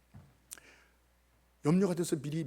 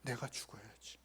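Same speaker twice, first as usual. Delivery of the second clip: despairing murmur; 7 semitones lower, 18 dB quieter than usual. Retold or imitated. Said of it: "이런 생각을 했어요".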